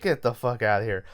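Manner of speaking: lightly voiced southern accent, dismissive; a hint of a southern clerk shooing him out; mock southern brush-off. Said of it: "I'm giving them a southern accent".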